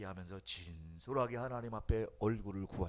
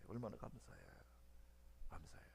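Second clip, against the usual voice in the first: 감사해 softer and softer to a breath; fading to a whisper; 17 dB quieter than usual. Acted. Preacher hushing the congregation, softer to a whisper. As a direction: let the thanks fade into a whisper.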